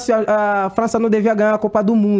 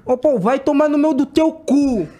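higher, slower, relishing the curse; mock insult; 8 semitones higher than usual. Shown as a demonstration. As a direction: drag the insult out playfully. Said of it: "xinga do jeito que você me xingaria". (xingamento brincalhão, mais agudo e arrastado)

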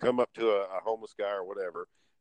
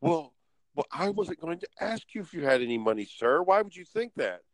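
offended beggar; 5 semitones higher than usual. Retold or imitated. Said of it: "He was like".

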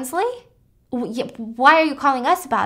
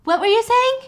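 higher, airy and vague; a higher, dizzy woman's voice; dazed high voice; 11 semitones higher, 5 dB louder than usual. Retold or imitated. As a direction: repeat it spaced out. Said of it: "she's like".

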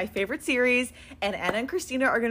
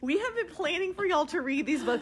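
higher-pitched, eager anticipation; real excitement; 5 semitones higher than usual. Real, not acted. Fan who has long waited to share the books, excited. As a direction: gush with pent-up excitement. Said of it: "Kim is so excited".

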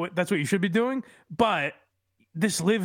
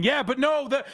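higher, halting, hedging voice; mock hand-wringing critic; 4 semitones higher than usual. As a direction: stammer out excuses nervously. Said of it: "twist themselves into a pretzel saying".

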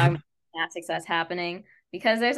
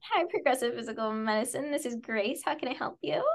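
lightly higher phone receptionist greeting; customer service voice; 4 semitones higher than usual. Acted. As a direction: pick up the clinic phone sweetly. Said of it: "I have the customer service voice down".

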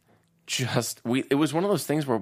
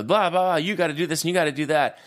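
retold yelling; 4 semitones higher, faster than usual. One guy arguing with the other, mock yelling. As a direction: imitate a rant in a light, quick yell. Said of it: "one guy's yelling at the other guy".

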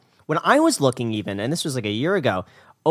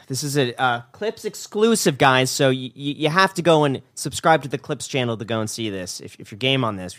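channel promo. Real, not acted. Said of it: "addresses the channel audience".

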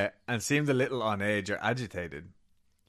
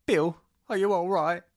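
higher and louder anxious question; worried wife; 10 semitones higher, 7 dB louder than usual. Acted. Wife calling to husband at window, high and worried. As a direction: call out to him, frightened and high.

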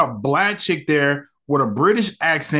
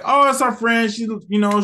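higher-pitched, lightly acted cover story; retold excuse; 6 semitones higher than usual. Captives cover up to passer-by, lightly imitated in a higher voice.

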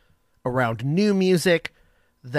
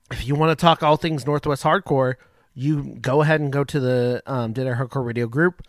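talking with food in mouth; words around a bite of food; mouth full. Real, not acted. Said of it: "sorry, I had something in my mouth".

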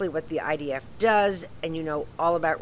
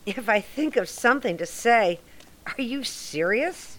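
incredulous echo; 4 semitones higher than usual. Acted. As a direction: throw the words back in disbelief. Offended echo of colleague's instruction.

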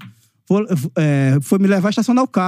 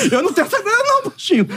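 high protest through laughter; laughing protest; 13 semitones higher, faster than usual. Retold or imitated. Telling Romário he can't pay the repair, laughing high. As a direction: plead you're broke while laughing. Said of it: "Eu falei".

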